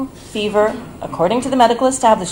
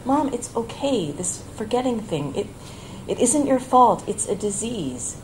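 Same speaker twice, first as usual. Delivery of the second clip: soft, gentle reassurance; reassuring; 4 semitones higher, 3 dB quieter than usual. Retold or imitated. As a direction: comfort her softly. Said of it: "I tried to reassure her".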